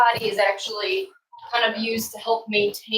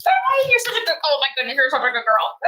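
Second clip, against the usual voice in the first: high, gushing praise for a puppy; talking to a dog; 4 semitones higher, faster than usual. Real, not acted. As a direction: coo at the dog.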